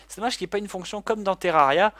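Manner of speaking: usual speaking voice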